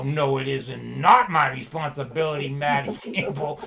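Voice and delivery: loud, mock-indignant refusal; indignant protest. Young man arguing with his elderly mentor, indignant protest.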